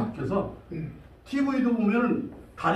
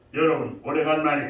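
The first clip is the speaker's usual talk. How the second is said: voice pressed down in the throat; 5 semitones lower than usual. Voice lesson on people who talk pressing the throat: pressed throat voice. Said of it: "가끔 목을 눌러 말하는 사람이 있어요".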